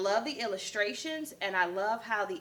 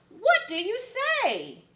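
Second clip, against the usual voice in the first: high chanting question; crowd asking; 13 semitones higher, 4 dB louder than usual. Acted. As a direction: ask together, coaxing. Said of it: "the crowd all joined in".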